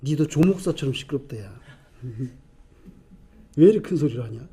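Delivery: low, soft grumble of complaint; grumbling bystanders. Retold or imitated. Bystanders annoyed by the shouting beggar, grumbling. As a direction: grumble under your breath about noise. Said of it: "주변 사람들이".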